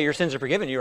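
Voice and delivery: quiet, casual forgiveness; easy throwaway line; offhand demo. Shown as a demonstration. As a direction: toss it off softly, nothing to it. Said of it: "anybody can say".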